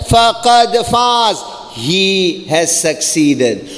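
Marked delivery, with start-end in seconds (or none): 0.1-1.4 fast chanted Arabic verse; quick Quranic recitation. Acted.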